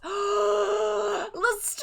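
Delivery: gasp, then the name shot up high; shocked gasp. Real, not acted. Gasps at the name reveal.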